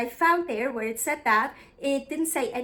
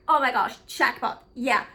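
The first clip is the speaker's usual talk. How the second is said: happy excitement; 3 dB louder than usual. Retold or imitated. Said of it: "We were so super happy".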